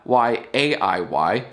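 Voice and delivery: "Y A I Y" letter by letter, slow; spelled out slowly. Shown as a demonstration. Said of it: "And spell it right".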